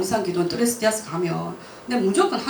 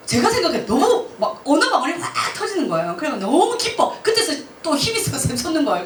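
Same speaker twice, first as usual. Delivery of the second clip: joyful excitement; 6 semitones higher than usual. Real, not acted. Joy at receiving tongues.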